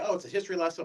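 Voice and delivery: quiet, dismissive quote; unimpressed viewer. Retold or imitated. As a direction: lightly imitate someone dreading a lecture. Imitating a reluctant would-be viewer.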